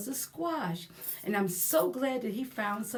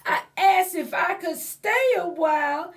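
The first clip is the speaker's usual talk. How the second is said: sad pumpkin voice; 9 semitones higher, 9 dB louder than usual. Acted. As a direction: read it as a sorry little pumpkin, pitched up. Continues held read voice.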